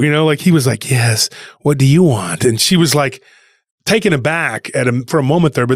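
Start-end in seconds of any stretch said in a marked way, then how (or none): 0.9-2.4 a slow, lightly voiced creepy vendor; creepy weirdo. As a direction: imitate an unsettling stranger, slowly. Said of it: "he talked so creepy".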